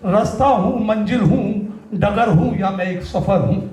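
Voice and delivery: measured spoken-word verse with short pauses; stage poet's cadence; poetry recitation. Acted. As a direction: recite line by line, letting each phrase land. Recites his poem on stage.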